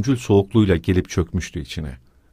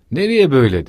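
higher, louder amused question; boisterous, raised-voice query; amid loud laughter; 6 semitones higher, 5 dB louder than usual. A narrator's reading. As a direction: call out in high amusement. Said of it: "gürültülü bir kahkaha atarak".

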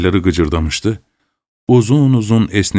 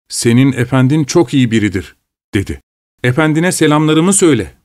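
lightly raised pitch, defensive servant; a hint of a grumbling manservant; Petruşka the servant; 5 semitones higher than usual. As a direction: protest like a sulky servant. Petruşka answers his master.

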